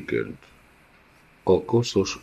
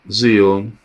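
a sharp cry of a name, louder; horrified cry; 4 semitones higher, 6 dB louder than usual. Acted. Wife recoils from the dead child, horrified cry. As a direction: call out the name in shock.

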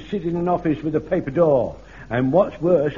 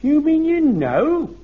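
high, loud and slow disbelief; astonished; 12 semitones higher, 6 dB louder, slower than usual. Acted. Jones learning Godfrey already knew, high astonished disbelief. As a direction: voice leaps up in amazement.

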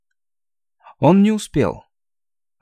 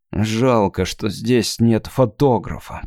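through gritted teeth; 2 semitones lower, slower than usual. Acted. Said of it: "процедил Сонд сквозь зубы".

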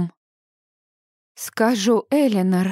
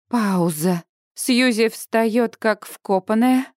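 ordinary delivery

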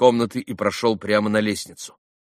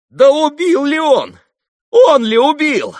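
much higher, louder, slow hysterical outburst; hysterical cry; 11 dB louder, slower than usual. A narrator's reading. Katerina turning on Ivan, hysterical cry. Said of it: "воскликнула она вдруг истерически".

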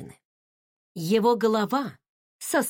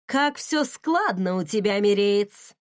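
through gritted teeth. Acted. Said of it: "процедила я".

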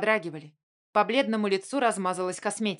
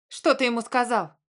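shouting; 4 semitones higher than usual. Acted. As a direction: yell the question at her brother. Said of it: "закричала она".

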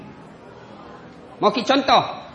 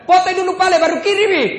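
higher, louder mocking demand; wife demanding a photo; suspicious wife; 10 semitones higher, 6 dB louder, faster than usual. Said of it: "Dia bilang".

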